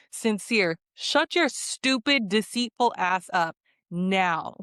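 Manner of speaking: slow, emphatic scolding; exasperated telling-off. Real, not acted. Viewer telling off a deceitful contestant, exasperated. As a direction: lay into each word slowly.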